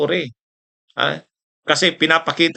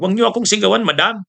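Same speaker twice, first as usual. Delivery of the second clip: higher-pitched, mild mock protest; retold raised voice; 6 semitones higher, faster than usual. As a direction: imitate someone answering back at being yelled at. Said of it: "nagtaas na rin si Matibag ng boses".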